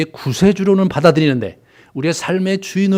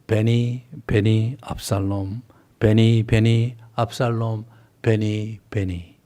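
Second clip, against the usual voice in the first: lamenting cry; 4 semitones lower, slower than usual. Retold or imitated. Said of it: "이렇게 들어서".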